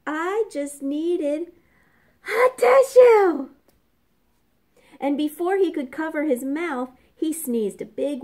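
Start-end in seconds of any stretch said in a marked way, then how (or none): 0.1-3.5 slow, rising to a high loud wail; sniffly whine into sob. A narrator's reading. Sick wolf explains himself, sniffling up to a wail. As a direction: whimper then wail for a tissue. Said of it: "sniffled Big Bad".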